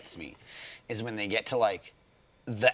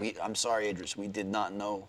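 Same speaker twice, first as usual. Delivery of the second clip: softer, meek mock apology; sheepish apology; 2 semitones lower, 9 dB quieter than usual. Studio apologising to a wronged actor, sheepish. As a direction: apologise quietly, as if caught out.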